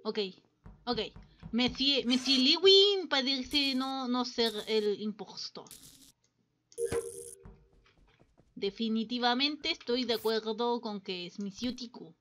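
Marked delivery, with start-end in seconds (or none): 1.5-12.1 measured, put-on French accent; deliberate verdict in French-accented Spanish; bad French accent. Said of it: "perdonen mi mal acento". (acento francés fingido, deliberado)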